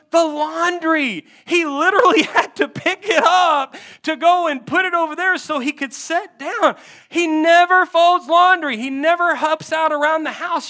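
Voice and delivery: high, loud exasperated venting; frustrated wife. Retold or imitated. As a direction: act out a wife fed up with her husband. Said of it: "what are you so frustrated about".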